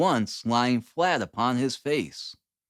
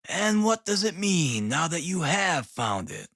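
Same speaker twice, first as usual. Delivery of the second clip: depreciatory; 4 semitones higher than usual. A narrator's reading. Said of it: "in a depreciatory voice".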